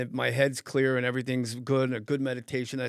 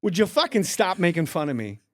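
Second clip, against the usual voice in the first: loud, raised star impersonation, annoyed; Christopher Walken; 4 semitones higher, 5 dB louder than usual. Retold or imitated. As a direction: complain as the irritated actor being mocked. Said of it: "you're gonna do Christopher Walken".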